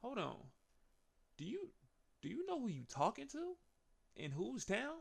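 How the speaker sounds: high mock-indignant Heyman; mock offended Heyman asking whose town this is; Heyman impression. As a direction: pitch it up, scoffing at a rookie. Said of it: "And Paul is like".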